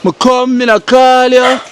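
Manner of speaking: hammed-up imitation of a nagging woman; mocking her. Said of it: "She's like".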